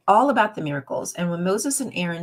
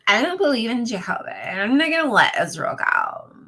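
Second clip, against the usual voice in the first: defiant Pharaoh; 5 semitones higher, 6 dB louder than usual. Acted. Pharaoh voiced in story.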